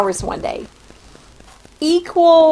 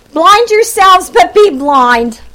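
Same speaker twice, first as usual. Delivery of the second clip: proclaimed slowly; 4 semitones higher, 6 dB louder, slower than usual. Shown as a demonstration. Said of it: "Now this is Isaiah".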